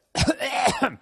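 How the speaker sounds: high, strained cough; loud throat-clearing cough. Real, not acted. Host unable to sing like that, real cough.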